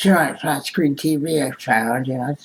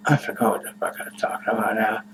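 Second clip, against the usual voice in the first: whispering; 3 semitones lower, 4 dB quieter than usual. Real, not acted. Stoned, loses his thread.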